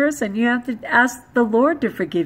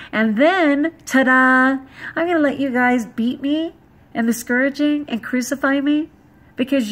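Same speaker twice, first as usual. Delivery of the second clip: righteous rant; 2 semitones higher than usual. Real, not acted. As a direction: build into a fired-up righteous rant. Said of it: "Got a little righteous right there".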